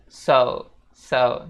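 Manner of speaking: "so" said loudly, gliding to OO; emphatic "soh-oo" for "so"; U glide. Shown as a demonstration. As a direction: round "so" into a final U. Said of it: "seolah-olah ada huruf U".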